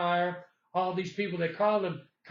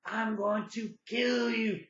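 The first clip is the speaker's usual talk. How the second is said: retold scream; 4 semitones higher, slower than usual. Man retelling the threat before the guy runs off, mock scream. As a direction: imitate a screamed threat without full volume. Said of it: "he lets out a scream".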